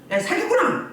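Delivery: high-pitched mimicked outburst; mock accusing call. Preacher acts out exposing a demon, high accusing call. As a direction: call it out sharply, high, as an imitation.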